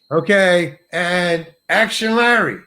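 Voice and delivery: slow, drawn-out cue to begin; director calling action. Retold or imitated. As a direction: lightly imitate a director calling a take. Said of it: "He calls me".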